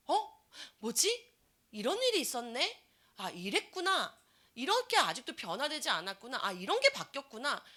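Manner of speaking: high, wondering exclamations of discovery; surprised discovery. Pretend. Preacher acting a reader who suddenly notices, surprised. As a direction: gasp in surprise as if finding it out.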